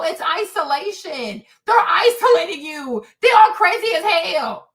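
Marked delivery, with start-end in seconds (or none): 1.7-4.7 loud, heated rant; angry outburst. Real, not acted. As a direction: yell it out in real anger. Angry rant about parents.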